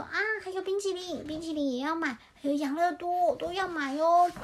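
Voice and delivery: lightly voiced greedy chick; excited little chick. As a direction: pick out treats like a delighted chick. Voices greedy chick choosing sweets.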